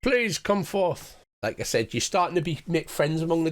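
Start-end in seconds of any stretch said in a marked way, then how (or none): 0.0-1.2 slow, breathy goblins in awe; a goblin crowd murmuring worship. Acted. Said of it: "all the goblins are like".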